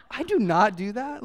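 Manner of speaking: mock denial, laughing through it; laughing protest. To his wife about peanut butter, laughing denial. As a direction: laugh it off while insisting.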